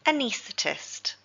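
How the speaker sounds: anaesthetist said slowly, stress on knees; slow teaching model of anaesthetist; stress on second syllable. Shown as a demonstration. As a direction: model anaesthetist carefully for learners. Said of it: "the stress is on the second syllable, knees".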